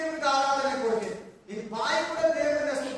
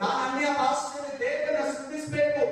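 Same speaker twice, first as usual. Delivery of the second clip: raised-voice pleading prayer, acted out; imitating an insistent, anguished prayer; re-enacted tearful plea; 3 semitones higher than usual. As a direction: cry out to God as if reliving desperation. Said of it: "ಬರೋ ಅಂತ ಅಳ್ತಾ ಇದ್ದೀನಿ".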